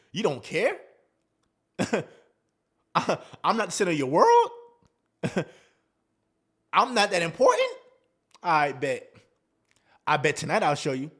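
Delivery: imitating a woman stung by his indifference; mock offended woman. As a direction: scoff then plot revenge with a chuckle. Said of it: "She's like".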